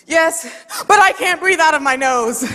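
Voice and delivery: mock-insist "but" to a wife who isn't getting it; insistent husband. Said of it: "he goes".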